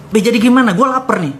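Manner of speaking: desperate plea. Retold or imitated. Young man pressing his silent godfather for an answer, desperate. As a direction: beg with rising urgency.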